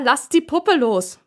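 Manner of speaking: slow, loud order; annoyed mother ordering the kids to let go; annoyed bellow. Acted. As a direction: drag out the command, fed up. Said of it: "brüllt die genervte Mutter".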